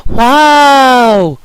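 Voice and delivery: long high loud wow; awed wow. A narrator's reading. Whole gang seeing rainbow, long high wow. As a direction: draw out the wonder. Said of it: "everyone exclaimed".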